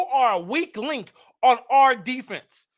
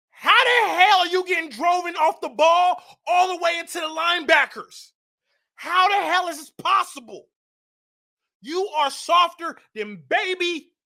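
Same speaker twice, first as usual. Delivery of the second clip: exasperated fan yelling at the player; heated yelling; 4 semitones higher than usual. Real, not acted. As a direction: shout it out in frustration. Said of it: "Let me calm down".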